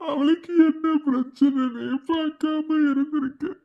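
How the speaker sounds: sobbing self-reproach; tearful guilt, voice cracking; crying. Acted. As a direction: confess it through tears. Blames himself for sister.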